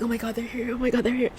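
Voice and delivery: hushed panic, barely voiced; breathless quiet alarm; panicked whisper. Woken by the buyer's message, a hushed panicked gasp.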